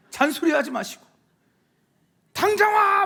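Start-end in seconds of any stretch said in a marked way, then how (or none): 2.3-3.1 high, loud drawn-out order; bossy shout. Acted. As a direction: shout it like a demanding parent on the phone. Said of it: "막 이렇게 말씀하지 마시고요". (당장 오라고 버럭 호통치듯)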